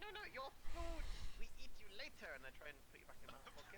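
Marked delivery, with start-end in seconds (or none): 0.0-2.3 high creature voice. Acted. Goblin-like character grabbing prisoners.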